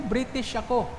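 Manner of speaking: high mocking echo. Pastor mocks the foreigner's claim. (mataas na panunuya)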